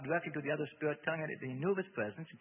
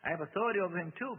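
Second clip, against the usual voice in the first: raised, firm declaration; 6 semitones higher, 6 dB louder than usual. A narrator's reading. Bob asserts authority over the devil, firm. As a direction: state your authority firmly. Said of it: "Bob said firmly".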